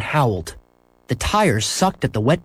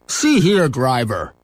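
fat man's protest; slower than usual. Acted. Fat man protesting to the bus driver, indignant. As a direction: call the driver to account. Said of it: "he said".

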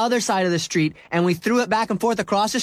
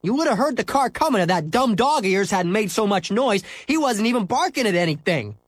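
put-on furious boy; 13 semitones higher than usual. Scooter demands a new ball, high angry rant.

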